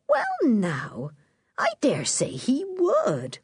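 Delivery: a slow countrywoman thinking it over; Mrs Mackey's voice. Acted. Mrs Mackey speaks slowly.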